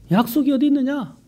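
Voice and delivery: high-pitched imitated jeer; mocking scoffers. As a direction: throw the question out as a retold taunt. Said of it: "사람들이 조롱한다는 거예요".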